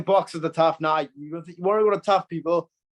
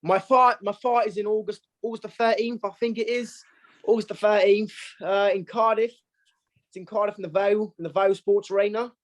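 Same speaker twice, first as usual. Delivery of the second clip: put-on London accent, pitched up; 4 semitones higher than usual. Boxer signs off for host in put-on London accent. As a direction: announce it like a would-be Londoner, drifting Australian. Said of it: "You want my London accent".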